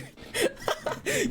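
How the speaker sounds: self-mocking squeal of a laugh; high laugh. Real, not acted. Laughing at calling self loser.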